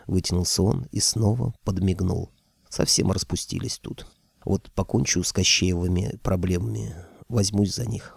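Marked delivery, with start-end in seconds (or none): 2.7-8.1 grumbled. Acted. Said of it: "ворчал я".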